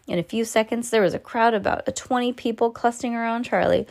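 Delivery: usual speaking voice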